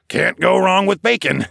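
high, loud and grinning; grinning agreement. A narrator's reading. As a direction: agree heartily with a grin in the voice. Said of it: "Charles agreed with a grin".

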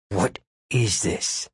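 slow, seething menace; through gritted teeth. A narrator's reading. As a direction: force it out through clenched teeth. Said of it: "through gritted teeth".

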